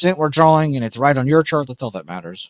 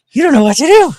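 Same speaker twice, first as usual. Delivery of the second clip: much higher, loud squeal to the dog; 11 dB louder, faster than usual. Real, not acted. Owner cooing to a confused dog, squealing baby talk.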